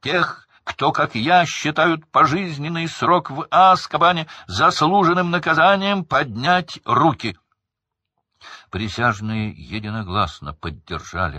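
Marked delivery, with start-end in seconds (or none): 0.0-7.4 full-lung shout. A narrator's reading. Crouch bellowing to the jury to raise hands. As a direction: bellow the demand. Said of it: "крикнул Крауч во всю силу лёгких".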